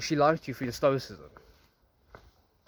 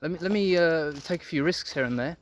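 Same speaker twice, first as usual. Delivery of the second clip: voicing the woman; 5 semitones higher than usual. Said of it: "she was like".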